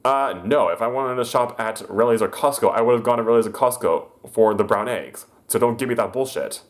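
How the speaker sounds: imitating a huffy customer; mock angry customer. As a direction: push back like an annoyed customer. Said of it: "the lady was like".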